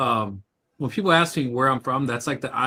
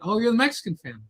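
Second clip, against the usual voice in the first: high, mock-surprised "oh"; mock surprised locals; 11 semitones higher, faster than usual. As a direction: imitate the neighbours, pitch jumping up. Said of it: "They're like".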